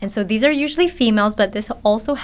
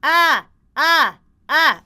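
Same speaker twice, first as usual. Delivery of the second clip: loud, higher nasty ah in chest; 7 semitones higher, 5 dB louder, much slower than usual. Shown as a demonstration. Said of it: "just do that all day".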